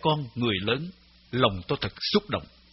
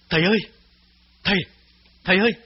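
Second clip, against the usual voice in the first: louder, higher call of father; 7 semitones higher, 5 dB louder, much faster than usual. A narrator's reading. Son calling his father louder, rising. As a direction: raise the voice to wake him. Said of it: "Tôi gọi to hơn".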